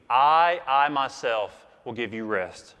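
preacher showing the Greek stress; emphatic I. Shown as a demonstration. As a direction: hit "I" hard and repeat it. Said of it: "it's, it's emphatic".

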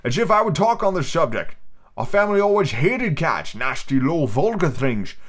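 high slurred squawky rant; shrill storybook mouse outrage; indignant mouse. Acted. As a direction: rant as an offended little mouse. Voicing offended mouse.

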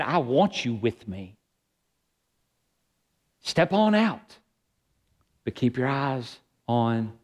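slow, gently voiced invitation; tender invitation. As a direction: invite slowly and tenderly, as Jesus to Peter. Jesus invites Peter to come.

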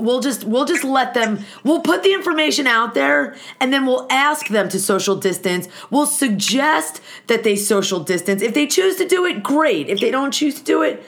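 lightly mocked accommodating officials, pitch lifting; breezy, mock-permissive lilt; mock Swedish officials. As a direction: parody a government too polite to give orders. Mocking Swedes' lax virus policy.

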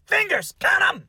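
mock urgent shout. Host shouting at the bitten guest to count fingers, urgent. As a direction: bark the order like a medic testing a dazed man.

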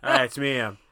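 put-on terrible Northern Irish accent; Brad Pitt. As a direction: badly fake a North Irish brogue. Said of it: "I'm doing a terrible Irish accent".

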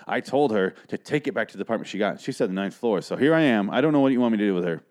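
bitchy manager. Retold or imitated. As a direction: imitate an exasperated effeminate manager refusing blame. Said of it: "he's really bitchy".

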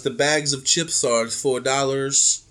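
low, sinking, sly offer; Sammy voice. Retold or imitated. Friend mimics Sammy's low quiet coupon pitch. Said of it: "He goes".

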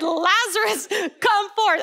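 high-pitched retold call to Lazarus; crying out. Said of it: "he cried out with a loud voice".

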